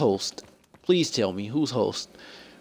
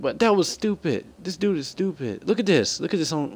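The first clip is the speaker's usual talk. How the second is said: exasperated, higher-pitched complaining; frustrated; 6 semitones higher than usual. Real, not acted. Gamer complaining to viewers about a stupid death, frustrated. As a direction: vent real frustration, pitch raised. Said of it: "I'm getting frustrated".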